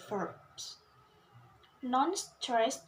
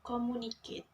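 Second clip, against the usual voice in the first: "communicate" stressed on its second syllable, MU; faster than usual. Shown as a demonstration. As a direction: put the weight on the MU of "communicate". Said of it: "stress on the second syllable".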